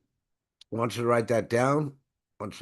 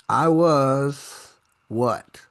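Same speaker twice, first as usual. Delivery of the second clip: put-on slow, louder, drawn-out accented "I was what?"; half-joking accent creeping in; unplanned accent; 2 semitones higher, 6 dB louder, much slower than usual. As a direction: slip into a playful accent without meaning to. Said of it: "this accent is coming in there".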